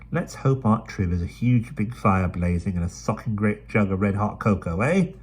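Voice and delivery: brisk London urchin, chatty; Dido's voice. Acted. Dido tries to cheer.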